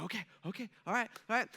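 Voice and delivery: imagined eager angel collecting himself; quick self-soothing before the big line, lightly acted; trying to settle down. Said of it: "calm down, just breathe a little bit".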